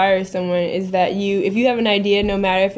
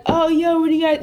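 put-on New York accent; 8 semitones higher than usual. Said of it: "thick New York accent. And he was like".

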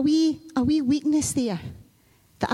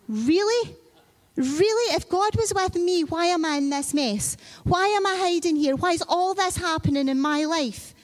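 higher, mildly scoffing disbelief; a hint of sarcastic scorn; 4 semitones higher than usual. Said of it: "Caleb scoffed".

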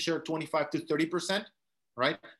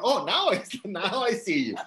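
surprised; 4 semitones higher, 4 dB louder than usual. Real, not acted. Host suddenly spots Fabrice on camera.

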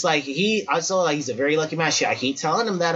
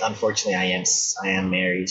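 polite letdown; 11 semitones lower, faster than usual. Retold or imitated. Retold woman's polite refusal.

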